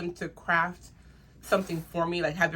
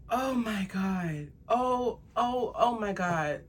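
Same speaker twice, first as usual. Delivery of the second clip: slow breathless oh my God; overwhelmed awe; 3 semitones higher, much slower than usual. Real, not acted. Holding the new charm, overwhelmed in awe. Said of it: "I gotta calm down".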